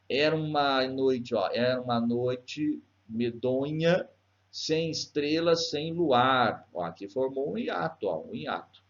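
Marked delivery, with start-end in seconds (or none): 0.1-1.3 slow, measured poetry reading; verse recitation. Shown as a demonstration. Teacher scanning a verse for students, slow recitation. Reads verse, showing vowel junction. 1.5-6.7 slow, measured poem with spaced phrases; verse recitation. Shown as a demonstration. Teacher reading the verse to students, slow recitation. Reads the poem's verse aloud.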